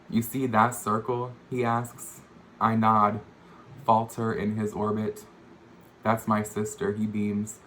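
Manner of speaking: measured poem recital, phrase by phrase; poetry reading. Acted. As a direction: read it as verse, pausing between images. Reads own poem aloud.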